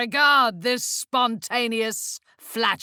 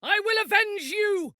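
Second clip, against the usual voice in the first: battle cry; 7 semitones higher, faster than usual. Acted.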